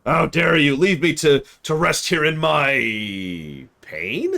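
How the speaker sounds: a grumpy dragon roaring, then dragging out the complaint; indignant dragon shout. Retold or imitated. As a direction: bellow at them for waking him. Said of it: "he says it just like that".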